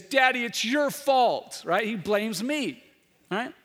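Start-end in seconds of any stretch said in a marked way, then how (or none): 0.0-1.6 put-on crying child. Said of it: "he starts crying and he gets angry".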